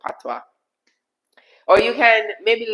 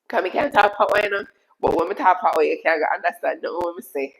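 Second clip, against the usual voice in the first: quick-flowing Jamaican patois; faster than usual. Shown as a demonstration. Streamer showing a viewer her other accent, in Jamaican patois. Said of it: "or when we talk patois".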